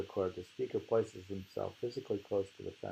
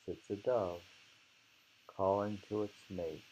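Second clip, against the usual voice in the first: poem recitation. Acted. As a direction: savour each image as you recite. Reads the poem aloud.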